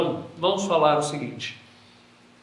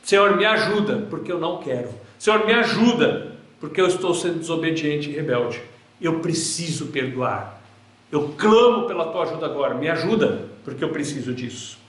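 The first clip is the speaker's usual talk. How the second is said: crying out prayer. Pretend. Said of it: "eu tenho que clamar".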